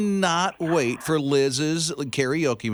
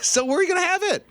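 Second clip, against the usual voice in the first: laughing; faster than usual. Real, not acted. Host laughing with winner.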